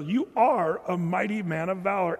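plain, earnest praise; mean every word; truthful encouragement; sincere. Pretend. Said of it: "Or was he saying it truthfully?".

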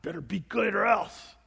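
mild mock menace, a hint of a stern parent; mock threat. Shown as a demonstration. Preacher contrasts the harsh reading he rejects, threatening. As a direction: say it as a veiled threat.

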